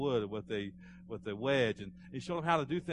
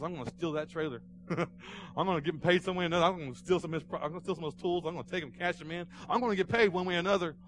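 higher-pitched acted grievance; mad kid; 6 semitones higher, 4 dB louder, faster than usual. Underpaid ninth grader plotting to get even, acted mad. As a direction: vow payback like an indignant boy. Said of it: "but I was so mad".

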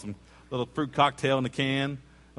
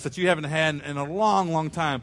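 eager question; 5 semitones higher, 4 dB louder than usual. Retold or imitated. Asking the kids eagerly.

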